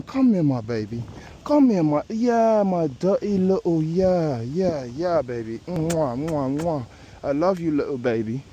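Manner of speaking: mock-tender cooing with kisses; doting baby talk. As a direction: coo to it like a beloved baby. Doting on his golf ball.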